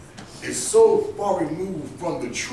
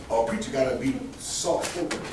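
mocking soft belief; 6 semitones lower, 8 dB quieter than usual.

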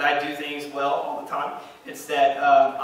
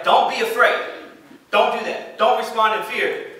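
higher, louder urging; earnest raised reassurance; urgent plea; 5 semitones higher, 3 dB louder than usual. Acted. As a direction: call out "Don't be afraid" like a plea. Preacher urging congregation.

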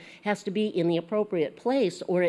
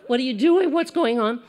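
higher and louder, a mock startled cry; startled bystanders; 6 semitones higher, 5 dB louder than usual. Teacher voicing the shocked crowd in the picture, mock startled. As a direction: voice the shocked onlookers. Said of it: "the people's faces in the background".

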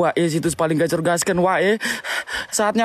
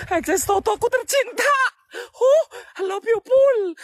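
hyped ad read; 14 semitones higher than usual. Acted. Gambling ad shout-out.

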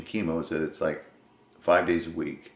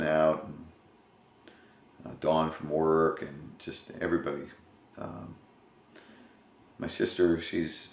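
speaking through his fist; muffled behind hand; hand over mouth; 5 dB quieter than usual. Real, not acted. Seen 2: Fist held against his mouth throughout the labelled words.

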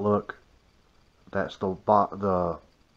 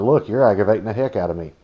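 irritated; 6 dB louder, faster than usual. Retold or imitated. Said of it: "I said".

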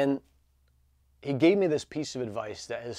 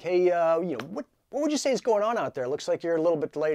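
controller voice; 6 semitones higher, 4 dB louder than usual. Retold or imitated. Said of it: "air traffic control is like".

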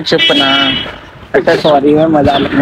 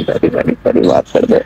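whispered apology. Real, not acted.

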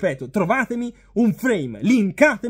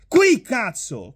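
slow, furious outburst; explosive italian cursing; much slower than usual. Real, not acted. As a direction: bark it in disbelief. Furious rant over handball call.

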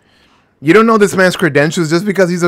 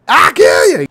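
angry shout; 4 semitones higher, 4 dB louder than usual. Acted. Angry character voice quoted.

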